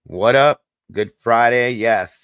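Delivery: loud, wired, high greeting; jittery, buzzing with energy; too much caffeine. Real, not acted. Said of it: "I'm a little wired tonight".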